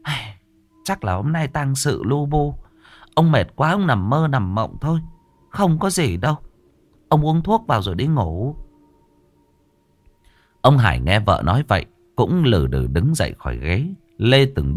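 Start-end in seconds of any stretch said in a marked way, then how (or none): 0.0-8.5 put-on higher, brisk older woman brushing it off; wife's voice. Wife waves off her husband's nightmare, higher and brisk. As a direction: dismiss his fears as a higher-pitched wife.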